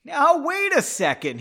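high, loud, drawn-out protest; acted amusement. A narrator's reading. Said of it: "he said, laughing".

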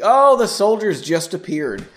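loud mock surprise. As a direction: make fun of the plot with exaggerated surprise. Mocks the cheesy plot.

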